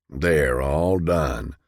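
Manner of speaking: slow, proud declaration; proud announcement. A narrator's reading. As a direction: announce it with satisfaction. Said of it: "Richard announced proudly".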